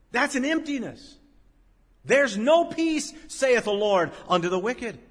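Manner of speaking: high-pitched pulpit declamation; emphatic preaching. Acted. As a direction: declaim it to the congregation. Preaches at full force.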